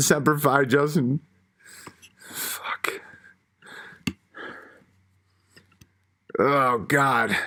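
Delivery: crying, tearful voice cracking and breaking. Reading aloud an old tribute to Justin, finishing it, crying, voice breaking. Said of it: "I'm sorry for crying".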